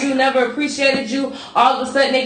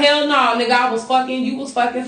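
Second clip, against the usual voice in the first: usual speaking voice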